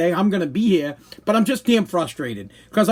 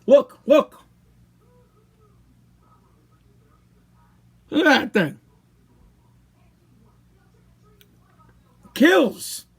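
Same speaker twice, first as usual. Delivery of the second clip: in pain; 10 semitones higher, slower than usual. Real, not acted. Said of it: "It's painful".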